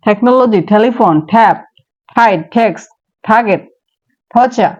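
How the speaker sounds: the same T words run together quickly. Shown as a demonstration. Teacher repeats the word list quickly for practice. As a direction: rattle through the list at speed. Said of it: "speed নিয়ে বলার চেষ্টা করব".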